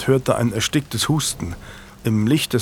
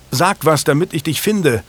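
calling out; 5 semitones higher than usual. Acted. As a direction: shout to be found in the dark. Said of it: "rief Julian".

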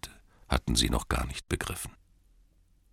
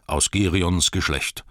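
slow, louder, Girions stressed with falling close; proud declaration; 2 semitones higher, 4 dB louder than usual. Acted. Bard declares his lineage to the townsfolk, proud and slow. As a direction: claim aus Girions Geschlecht with pride. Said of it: "rief er".

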